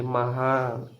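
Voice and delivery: महान read softly with a long हा; reading demonstration. Shown as a demonstration. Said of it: "इसको ऐसे पढ़ेंगे". (महान को धीरे से, हा लंबा करके)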